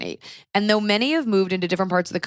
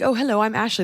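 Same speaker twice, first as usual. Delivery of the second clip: higher-pitched posh British introduction; posh British accent; 4 semitones higher, faster than usual. Retold or imitated. British guest introducing himself, posh British accent. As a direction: imitate a very posh British man. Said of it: "very posh accent".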